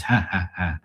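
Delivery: mock spoken ha-ha-ha; imitated laugh. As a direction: imitate dad's laugh without really laughing. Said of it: "He starts laughing again".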